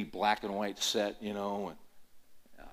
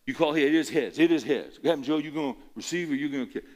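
put-on Southern referee accent; 4 semitones higher, 7 dB louder than usual. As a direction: bellow the coin toss in a Southern accent. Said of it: "real deep Southern accent".

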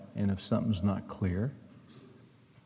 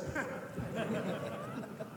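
breathy laugh; 9 semitones higher, 13 dB quieter than usual. Real, not acted. Laughter after the punchline.

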